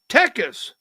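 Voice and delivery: "Texas" said as TEH-kas, no s after the k; imitated Mexican pronunciation. Host mimicking how Mexicans he met said "Texas", as TEK-us. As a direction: drop the middle s in "Texas": TEK-us. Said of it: "When I first started meeting Mexicans".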